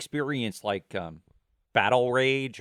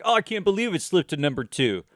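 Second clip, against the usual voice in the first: lightly put-on voice, pitched up; mock disbelief, a bit higher; put-on gushing; 4 semitones higher than usual. Imagined chat about the song charts, put-on gushing. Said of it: "Not that I talk like that".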